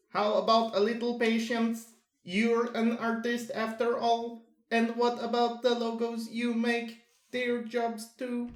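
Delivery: high, evenly pitched character voice; firm encouraging companion. Acted. Companion urging patience on the artist, firm even delivery.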